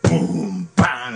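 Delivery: punchy sound-effect words; imitated crash. Storyteller imitating cans in a bass drum, punchy crash. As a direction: act out the booming bang.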